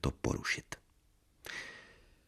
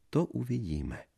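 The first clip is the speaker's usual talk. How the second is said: high, soft mocking echo; 8 semitones higher, 6 dB quieter than usual. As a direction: parrot him teasingly. Wife echoes mockingly. (posměšná ozvěna)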